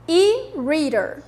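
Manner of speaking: E-reader slowly said with American R ending; model pronunciation. Shown as a demonstration. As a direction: say E-reader slowly for the class to repeat. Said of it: "Repitam aí".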